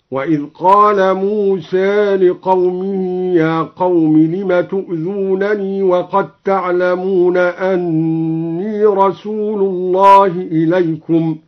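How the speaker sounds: "موسى" with a slight imala toward e, slow; Quranic recitation. Shown as a demonstration. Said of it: "قلل موسى هكذا". (ترتيل مع تقليل "موسى")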